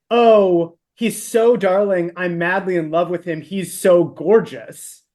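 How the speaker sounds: slow, lovestruck gush. Retold or imitated. Quoting a smitten girl to her cohost, gushing slowly. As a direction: draw out the adoring words.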